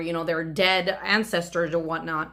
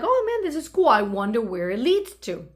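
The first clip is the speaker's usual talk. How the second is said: light up at a secret staircase; excited discovery; 3 semitones higher than usual. Retold or imitated. Finding stairs in the backyard.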